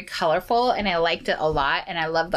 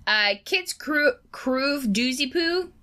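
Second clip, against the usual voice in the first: lightly voiced Jake, slowed down; a hint of Jake, stretched out slowly; impression of Jake; 4 semitones higher, slower than usual. Cohost doing a Jake line for fun, only a light Jake voice. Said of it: "I'm gonna do Jake".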